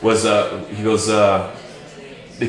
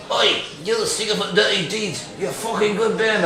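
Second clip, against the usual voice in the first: high put-on English voice; impression of a rock singer; 10 semitones higher than usual. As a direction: imitate a gruff rocker's praise. A rocker praising the band.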